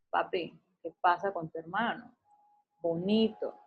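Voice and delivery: tender question to little one. Shown as a demonstration. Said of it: "le dices".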